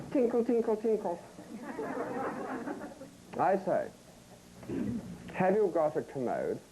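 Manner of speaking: mock shop bell tinkle, then posh customer. Shown as a demonstration. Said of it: "I'll do that again".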